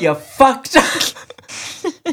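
high, very slow hammed-up taunt; Soul Calibur catchphrase. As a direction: stretch the taunt out like a fighter. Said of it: "your Soul Calibur catchphrase".

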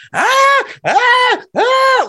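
high, loud screams of relief after the border; relieved screaming. Retold or imitated. Two friends screaming with relief after driving across the border, high and loud. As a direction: let out three high ah screams, giddy with relief.

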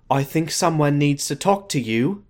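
mock British Ashley; British accent. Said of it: "I want you to do British Ashley".

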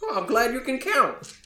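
put-on high-pitched sarcastic old-timer; crotchety old man. Old man retorting to an adventurer, crotchety sarcasm. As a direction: toss it back as a cranky jab.

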